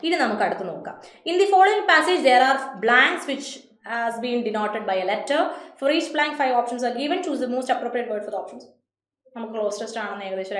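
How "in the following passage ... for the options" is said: slow, even reading of the test rubric; reading instructions. Shown as a demonstration. Teacher reading the cloze instructions to students, slowly. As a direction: read the directions out plainly and slowly.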